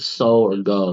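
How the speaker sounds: "so" and "go" with a long "oh" vowel; long O sound. Shown as a demonstration. Teacher contrasting vowels for a student, long "oh" in "so" and "go". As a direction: let "so" and "go" end openly on "oh". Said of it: "it has a O sound".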